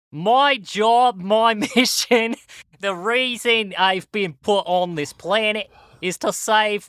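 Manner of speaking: earnest wildlife-mission speech in a put-on Aussie accent; hammy Australian accent stretching out "save wildlife"; mock Australian accent. Giving a stirring speech about saving wildlife, in a hammy mock Australian accent. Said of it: "most offensive Australian accent I can".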